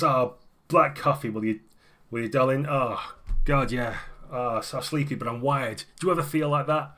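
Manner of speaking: breezy woman gushing over her coffee; chatty cafe woman. Acted.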